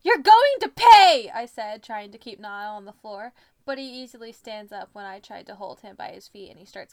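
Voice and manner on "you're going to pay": slow, loud, high threat; vengeful yell. A narrator's reading. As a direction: draw out a dramatic threat. Threat while tackling Niall in story.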